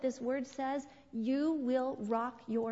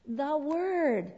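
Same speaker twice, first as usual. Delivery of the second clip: louder repeated answer; 3 semitones higher, 6 dB louder than usual. Acted.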